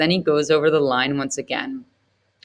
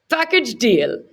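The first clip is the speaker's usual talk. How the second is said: incredulous; 7 semitones higher, 3 dB louder, slower than usual. Acted. Setji incredulous.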